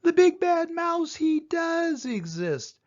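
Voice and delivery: awed realisation. Acted. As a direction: breathe it out as the truth sinks in. Child frightened, high, slow.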